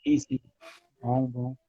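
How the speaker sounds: choppy breaking-up call audio; words cutting in and out on a bad line; buffering stutter. Real, not acted. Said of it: "tá picotando um pouquinho". (áudio picotando)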